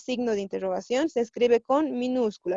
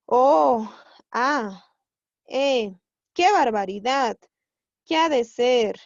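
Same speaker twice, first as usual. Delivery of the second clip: mildly emphatic sample exclamations, each set apart; demonstrated interjections; 5 dB louder, slower than usual. Shown as a demonstration. Teacher listing interjections for the class, exclamatory. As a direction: exclaim each one separately, leaning on the opening. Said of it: "esas son las interjecciones".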